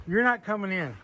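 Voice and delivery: firm mock warning; playful firm no; I'll go. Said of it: "I'll go".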